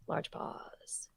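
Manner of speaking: whispered aside. Shown as a demonstration. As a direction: breathe it without voice.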